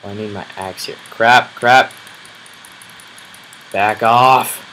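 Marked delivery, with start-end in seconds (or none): 1.1-4.6 loud panicky yell; real startled yell; alarmed shout. Real, not acted. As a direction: shout at the mob to back off. Mobs attacking him.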